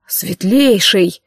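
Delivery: slow, restrained rebuke; slow, tight reprimand; through gritted teeth. A narrator's reading. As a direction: hold the anger back behind the teeth. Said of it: "сквозь зубы проговорил Джандар".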